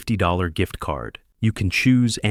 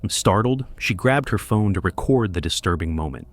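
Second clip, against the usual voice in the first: documentary narration. A narrator's reading. Narrator introduces viral clip.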